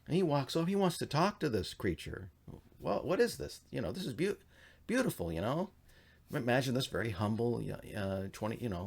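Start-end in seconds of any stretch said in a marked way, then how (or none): 2.8-5.7 put-on awed young man. Sethite marvels at the woman.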